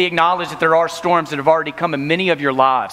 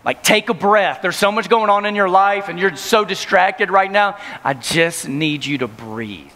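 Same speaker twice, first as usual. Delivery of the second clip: gentle; slower than usual. Retold or imitated. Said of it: "God was gonna be patting me saying".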